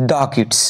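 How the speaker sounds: দা as "duh" before kids. Shown as a demonstration. Teacher revises the answer, দা as "duh". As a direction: open vowel in দা, falling on kids. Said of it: "উচ্চারণ কি হবে".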